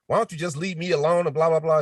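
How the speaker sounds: hammed-up loud scene reading; loud acting line. Acting a scene with Natalia, too loud. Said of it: "Why are you talking loud?".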